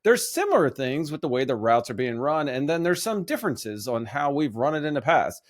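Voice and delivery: lightly done coach impression with a hint of Italian; a touch of an Italian-American coach's voice; Sirianni voice. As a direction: mildly imitate a coach giving a press answer. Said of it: "I hope you like my Sirianni voice".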